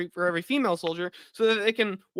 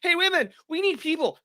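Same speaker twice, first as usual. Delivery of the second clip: propaganda announcer; 10 semitones higher than usual. Retold or imitated. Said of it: "to have propaganda of, like".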